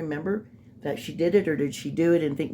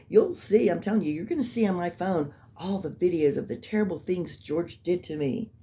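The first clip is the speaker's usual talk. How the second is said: imitating her; 2 semitones higher than usual. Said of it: "now she flipped back".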